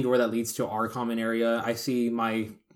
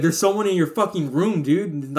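panicked; 4 semitones higher than usual. Retold or imitated. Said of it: "he's like".

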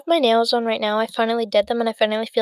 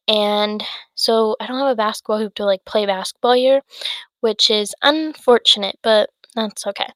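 breathless, winded speech; out of breath. Real, not acted. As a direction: talk while short of breath. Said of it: "getting really out of breath".

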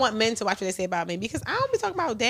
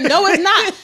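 imitating the guy; 8 semitones higher, 8 dB louder, slower than usual. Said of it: "He said".

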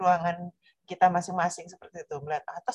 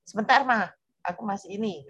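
distracted child; 2 semitones higher, 4 dB louder than usual.

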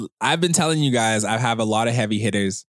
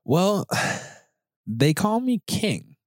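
grand self-introduction; 9 semitones higher, much slower than usual. Acted.

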